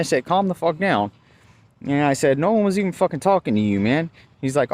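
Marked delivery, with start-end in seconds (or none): 0.2-1.1 high, indignant telling-off; retold cussing out. Driver reminding cop who pays him, retold indignation. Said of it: "I ended up cussing this one out". 2.4-4.1 fast, high, indignant brush-off; retold cussing out. Driver to cop who butted in, retold indignation. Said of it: "I ended up cussing this one out".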